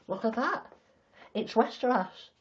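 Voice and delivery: hammed-up fantasy backstory; mock epic tale. Joking she was born in Westeros.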